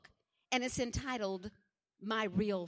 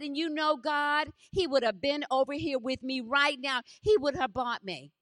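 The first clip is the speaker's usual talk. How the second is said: louder, insistent retold complaint; angry protest to God; 2 semitones higher, 6 dB louder than usual. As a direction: re-enact a grieving daughter arguing with God. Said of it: "I was so angry".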